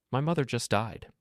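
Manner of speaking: each word of "My mother just died" weighted; slow, emphatic. A narrator's reading. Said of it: "slower this time, emphasizing each word".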